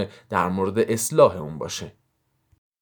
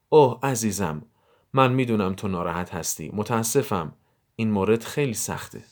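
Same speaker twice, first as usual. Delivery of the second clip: gentle sympathy. Acted. Parent comforting an upset child in an example, gently sympathetic. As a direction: console tenderly, with understated feeling. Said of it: "اون رو همراهی کنید".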